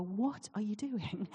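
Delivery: slow, drawn-out imitation of a baffled relative; mock bafflement. Family questioning mum's odd accent, mock bafflement. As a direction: quote them, stretching out each word in disbelief.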